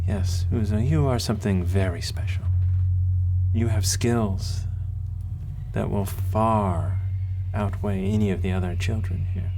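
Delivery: a hint of an accented matron, measured phrases; kindly accented mentor. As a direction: praise a special child solemnly. Voices the accented woman mentor.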